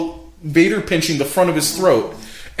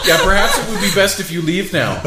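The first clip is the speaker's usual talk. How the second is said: emotionless rational. Retold or imitated. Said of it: "uber emotionless, rational voice".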